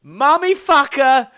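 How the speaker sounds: high, loud, slow unhinged babble; manic gibberish. Real, not acted. Host hyped on energy drink yells nonsense at co-host. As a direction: lose it completely, shouting nonsense. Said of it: "I've lost it".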